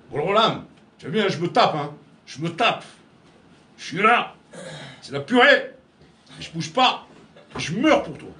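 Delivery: loud, proud self-praise to God; boastful devotee. Retold or imitated. Worshipper boasting to God of his effort, loud and proud. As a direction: show off how hard you push yourself. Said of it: "on dit, Hashem".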